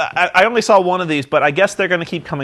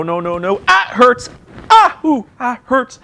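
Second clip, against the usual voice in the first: mock whining; 9 semitones higher, 4 dB louder than usual. The speaker acting hurt at trainer.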